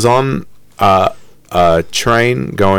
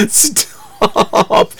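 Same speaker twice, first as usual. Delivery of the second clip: stifled plea; 11 semitones higher than usual. Retold or imitated. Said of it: "I was like".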